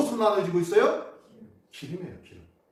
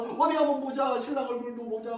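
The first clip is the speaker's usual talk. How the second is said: lightly voiced onlookers, higher pitch; a hint of a curious crowd; eager onlookers; 5 semitones higher than usual. Villagers wanting a look at the groom, lightly acted, higher.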